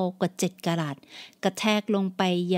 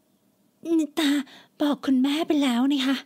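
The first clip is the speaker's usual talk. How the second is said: put-on higher, tearful young woman; pleading daughter; 5 semitones higher, much slower than usual. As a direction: explain it again, near tears.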